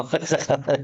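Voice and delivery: chuckling through the words; real laugh breaking up the phrase. Real, not acted. Teacher laughing about failing anyway.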